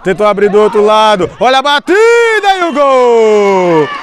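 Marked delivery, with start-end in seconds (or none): 1.4-3.9 explosive goal commentary. Real, not acted. Goal call.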